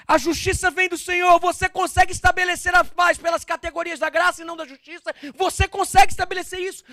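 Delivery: high, loud shouted exhortation; full-force preaching. Real, not acted. Preacher urging a listener to drop the guard, fervent shout. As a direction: preach it at the top of your voice.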